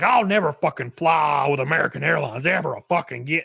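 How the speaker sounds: imitated angry rant, timbre changed; mock outraged customer vow. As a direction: rant like a fed-up traveler. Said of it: "just, just angry".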